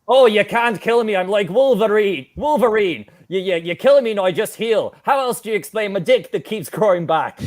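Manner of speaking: lightly taunting put-on Irish accent. Frog caller boasting he cannot be killed, Irish accent. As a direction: brag in a mock Irish accent. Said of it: "could do an Irish accent".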